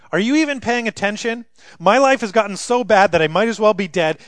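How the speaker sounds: a touch of bitter sarcasm; angry prayer. Acted. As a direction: accuse God in prayer. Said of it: "poetic prayer that essentially says".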